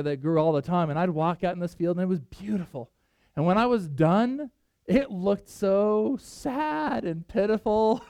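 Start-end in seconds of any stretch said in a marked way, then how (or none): 4.9-8.0 drawn-out, playful lament; mock pity. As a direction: stretch it slowly into mock sorrow. Playful lament over pruned vines.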